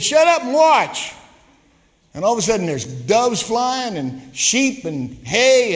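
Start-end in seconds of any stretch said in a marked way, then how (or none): 0.0-1.1 much higher and louder, a sharp command; Jesus shutting Peter up, loud and curt; stern Jesus. Retold or imitated. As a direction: bark it like a fed-up Jesus. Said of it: "And he said".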